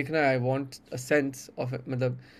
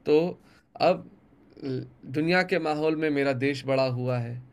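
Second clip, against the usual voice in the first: poem recitation. Acted. Poet reciting his poem to the interviewer, measured recital.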